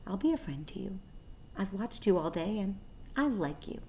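soft whisper from the dark; gentle, soft and kind; thin, pleasant voice. A narrator's reading. Unseen spider whispering friendship to the lonely pig. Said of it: "It sounded rather thin, but pleasant".

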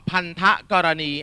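"พันธกรณี" sounded out syllable by syllable; อ่านแยกพยางค์. Shown as a demonstration. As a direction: read "พันธกรณี" as pan-tha-ko-ra-nee, each syllable distinct. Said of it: "อ่านกี่พยางค์". (อ่าน "พันธกรณี" ชัดทีละพยางค์)

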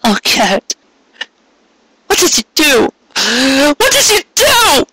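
high, climbing accusation; accusing disbelief. A narrator's reading. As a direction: demand it in shocked disbelief. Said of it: "half one of accusation".

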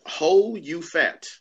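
"Ho You Fat" in slow, separate words; unsure, deliberate reading of "Ho You Fat"; careful name pronunciation. Real, not acted. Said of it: "I hope I pronounced it right".

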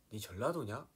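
lightly imitated Jeolla question; Jeolla dialect. Shown as a demonstration. Showing how Jeolla friends ask, light Jeolla accent. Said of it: "막 이런 거".

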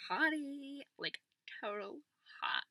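high, loud, drawn-out gush. Acted. Girl gushing to her vlog about the new history teacher, gushing. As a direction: swoon loudly over a crush.

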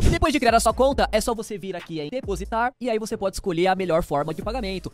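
loud, punchy sponsor read. Acted. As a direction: sell it like a radio ad.

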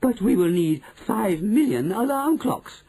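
high protesting chorus; crying out. A narrator's reading. Witch audience doubting the plan, high cry. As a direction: object at high pitch. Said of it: "cried the audience".

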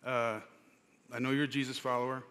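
nicely voiced, understated gentle correction; gently retold. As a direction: pass on a kind reminder, gently and unhurried. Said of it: "very nicely, very gently said".

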